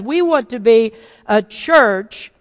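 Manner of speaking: "church" set apart and given deliberate weight; stress on church. Real, not acted. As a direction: lean firmly on the word "church". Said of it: "I emphasize the word church".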